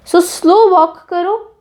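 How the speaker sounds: slow, drawn-out repeat of the phrase; slow walk said slowly. Shown as a demonstration. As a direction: say it slowly, savoring it.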